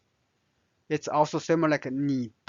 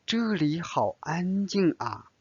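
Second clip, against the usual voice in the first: 这里好安静啊 said as an excited exclamation; 3 semitones higher than usual. Shown as a demonstration. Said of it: "make this a little bit like a exclamation, excitement".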